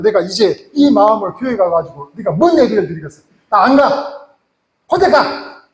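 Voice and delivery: mock outburst, refusing to go to church; angry husband. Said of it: "이제 갑자기 장로님 이제".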